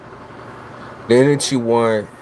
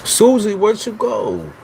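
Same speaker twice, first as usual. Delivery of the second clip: sung-out name call; 12 semitones higher, slower than usual. Real, not acted. Calling out to a chat user.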